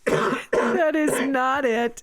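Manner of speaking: slow, emphatic denial; indignant. Real, not acted. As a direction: deny it slowly, indignantly. Denying partner's version.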